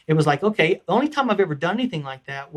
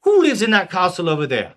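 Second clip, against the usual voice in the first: King Arthur; 2 semitones higher, 5 dB louder than usual. Acted. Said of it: "to King Arthur".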